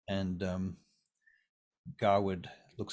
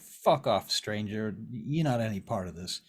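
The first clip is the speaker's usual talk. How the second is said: hostile brush-off. Acted. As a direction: warn a stranger to butt out. Vern snaps at interfering stranger.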